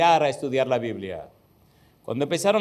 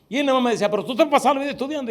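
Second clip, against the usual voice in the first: higher, laughing mock complaint; 8 semitones higher, much faster than usual. Student quoting husband's laughing complaint. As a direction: tease through a laugh.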